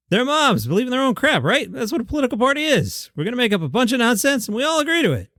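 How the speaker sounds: lightly voiced Jerry Seinfeld; a hoarse, half-hearted Jerry; Jerry Seinfeld impression. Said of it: "half-ass Jerry Seinfeld".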